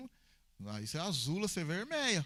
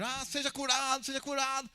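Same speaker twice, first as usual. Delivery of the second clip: mock faith healer; 8 semitones higher, 4 dB louder than usual. Mocking a showy healer.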